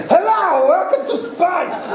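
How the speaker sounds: high, slow hammy welcome; Tim Curry imitation. GM still imitating Tim Curry, high and laughing. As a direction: stretch the welcome, grinning and hammy. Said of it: "watch him on the game going".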